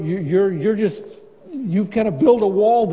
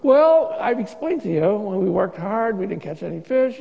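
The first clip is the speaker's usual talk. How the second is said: sarcastic. Retold or imitated. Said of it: "he's basically saying to Jesus".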